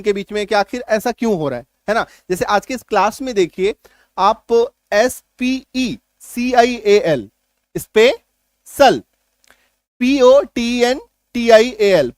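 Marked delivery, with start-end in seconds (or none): 4.9-7.3 slow, letter by letter spelling. Shown as a demonstration. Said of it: "spelling out letters". 7.8-9.0 स्पेशल drawn out slowly, falling at the end; slow model word. Shown as a demonstration. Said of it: "reading the spelled word". 10.0-12.1 slow spelling, letters spaced out. Shown as a demonstration. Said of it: "spelling out letters".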